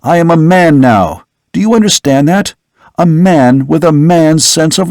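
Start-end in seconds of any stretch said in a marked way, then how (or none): 0.0-1.2 higher, heated insistence; a hint of outraged young man; indignant son. Son rejecting the vampire accusation, higher and heated.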